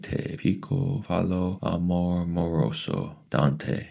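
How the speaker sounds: high, lilting quoting voice; odd old lady voice. Acted. Mrs Who quoting Dante to Mrs Whatsit, high and lilting. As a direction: recite it like a strange old sage.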